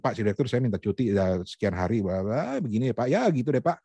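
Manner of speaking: mumbled leave request dissolving into blah-blah; badly articulated request. Shown as a demonstration. Coach shows how not to ask the director for leave, sloppy articulation. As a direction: run the words together carelessly. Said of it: "Artikulasi juga sama".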